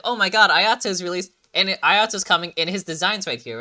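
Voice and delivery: imitating a hyped fan; excited. Quoting hyped internet reactions.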